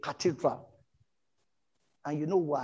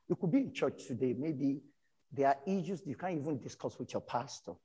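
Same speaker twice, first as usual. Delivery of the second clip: serious, soft; 6 dB quieter than usual. Real, not acted. Pastor gently addressing troubled churchgoers, softer and earnest. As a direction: lean in and speak to the hurting. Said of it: "On a more serious note".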